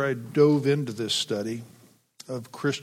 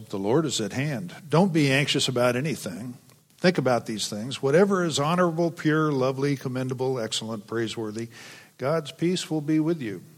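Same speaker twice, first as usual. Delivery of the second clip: mock slogans. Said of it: "marketing opportunity to sell coffee mugs".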